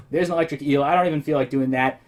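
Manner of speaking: strained, breaking voice; losing voice. Real, not acted. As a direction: voice cracking and straining. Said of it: "I'm sort of losing my voice".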